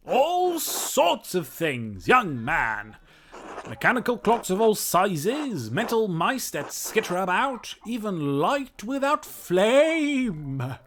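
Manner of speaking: high, loud eccentric professor voice; kooky mad scientist. Acted. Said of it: "like a mad scientist voice".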